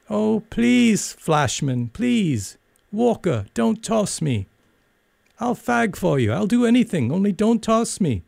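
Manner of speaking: put-on high, pleading small boy; a frightened boy begging not to be tossed; begging for mercy. A narrator's reading. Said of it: "sung out lustily for mercy".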